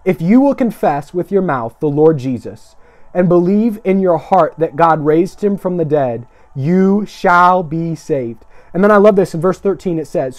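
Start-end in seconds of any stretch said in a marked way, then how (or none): 0.1-8.4 slow, weighty Bible reading; scripture reading. Real, not acted. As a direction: proclaim the verse phrase by phrase, drawing out the ending. Reads scripture again.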